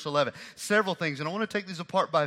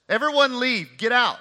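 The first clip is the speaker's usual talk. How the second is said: loud commanding order to leave; demanding order; 5 semitones higher, 5 dB louder than usual. Retold or imitated. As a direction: bark the order to clear the room. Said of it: "he demanded that everyone leave".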